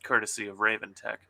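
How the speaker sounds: steady, even story narration; story reading. Acted. Author reading her diner scene aloud to guests. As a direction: read the scene out calmly.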